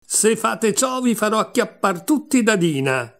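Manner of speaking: understated storybook shout, pitched high; narrated yell. A narrator's reading. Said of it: "gridò subito con quanta voce aveva in gola".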